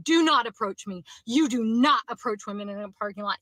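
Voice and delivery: loud, firm repeated command; retold yelling. Woman retelling her yell to the stranger, loud and firm. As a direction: lay down the rule loudly. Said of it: "like, yelling it".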